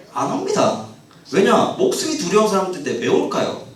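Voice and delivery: ordinary talk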